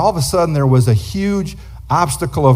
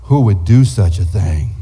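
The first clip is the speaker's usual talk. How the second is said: mock innocence; 8 semitones lower, slower than usual. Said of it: "Lenny's like".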